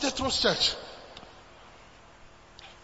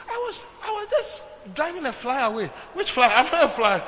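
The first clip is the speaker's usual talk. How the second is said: laughing mock quarrel; 4 semitones higher than usual.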